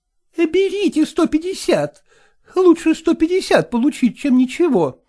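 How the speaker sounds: put-on old singer urging her mistress to take the money; pleading old woman. A narrator's reading. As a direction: coax her in a high pitch.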